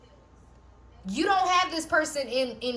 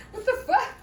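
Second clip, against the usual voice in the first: real shock; 12 semitones higher, faster than usual. Real, not acted. Shocked by a card.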